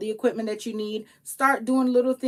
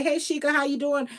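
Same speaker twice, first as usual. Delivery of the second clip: cheerful higher greeting; friendly shopkeeper greeting; 4 semitones higher than usual. Retold or imitated. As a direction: greet a regular warmly. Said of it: "they say".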